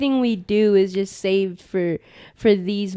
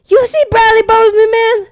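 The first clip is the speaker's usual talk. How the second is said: put-on Southern accent; 12 semitones higher, 7 dB louder than usual. Co-host bragging about his lineman, Southern accent hype. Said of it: "we do it in a Southern accent".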